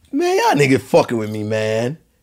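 offended tone, own accent, swooping and animated. Retelling own reaction when offended: imitating own accent when offended. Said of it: "I talk in my accent".

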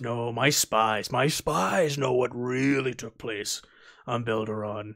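crime-lord character voice, slow, with know drawn out. Voicing a Hutt who answers Havoc in a role-play; Hutt crime lord voice. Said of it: "and sitting at the far end of it is a Hutt garbed in robes. ... I am ...".

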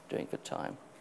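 soft whisper.

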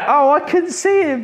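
very high, drawn-out, whiny woman's voice. Retelling what a man's wife said outside, in a put-on whiny wife voice. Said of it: "that's my whiny wife voice".

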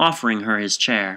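ordinary delivery

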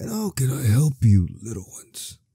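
put-on elderly old man character voice. Voicing a bard greeting children who burst into his room, old man voice. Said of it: "Should I give this man like an old voice?".

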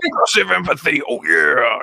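gruff pro-wrestler voice. Conference host closing day one jokes about doing a wrestler voice. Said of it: "doing some wrestler voice later where I'm like".

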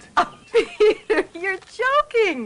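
words spoken through very high, drawn-out laughter. Reacting to the man's news, laughing. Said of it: "Judith, stop laughing".

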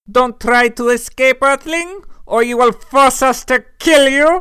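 fake German-accented alien voice. Playing an alien addressing a captive Earthling, in a German accent. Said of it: "why do you have that accent?".

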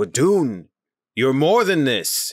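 loud, high, rousing rallying yell in character voice. Playing the captain urging a fallen crewmate: yelling in character. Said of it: "he yells".

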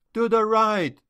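high, thin, squeaked voice. A boy whose head is being twisted gives in, squeaking. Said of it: "squeaked the boy".

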